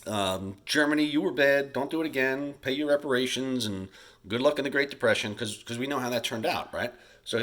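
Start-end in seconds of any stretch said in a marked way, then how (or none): 0.0-5.3 higher, brushing-off parental scold; lightly playing the Allies shrugging off Germany; a hint of a casual scolding parent; mock dismissive send-off. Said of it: "This time we didn't just say".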